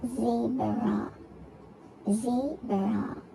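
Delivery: "Zebra" broken into two drawn-out beats; syllable by syllable. Shown as a demonstration. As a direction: teach "Zebra" one syllable at a time. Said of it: "two syllables".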